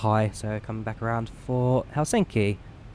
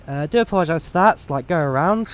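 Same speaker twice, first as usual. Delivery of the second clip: fast, upbeat airline captain PA; captain's cabin announcement; 3 dB louder, faster than usual. Acted. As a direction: address the passengers like a captain. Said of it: "speak to passenger".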